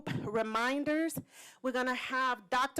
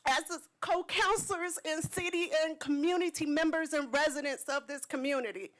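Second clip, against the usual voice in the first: getting emotional; 4 semitones higher than usual. Real, not acted. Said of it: "I didn't wanna get emotional".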